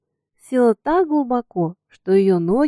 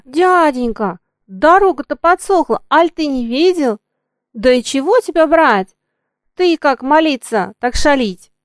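put-on girl arguing; 5 semitones higher, 6 dB louder than usual. A narrator's reading. Girl argues with coachman.

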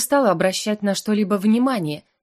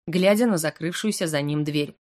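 plain reading voice

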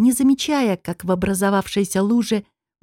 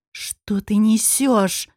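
hiss; much slower than usual. Acted. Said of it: "зашипела Нетали".

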